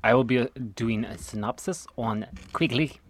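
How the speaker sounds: lightly put-on Australian accent; mock Australian accent. Host starting the synopsis in a mock Australian accent. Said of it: "In that, in that accent".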